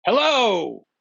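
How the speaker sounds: high bright call from far away; greeting called from a distance. Acted. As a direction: call out across the valley. Master calls out from afar.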